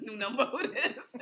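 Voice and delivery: laughing echo. Retold or imitated. Repeating a friend's phone line, laughing. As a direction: repeat it while cracking up.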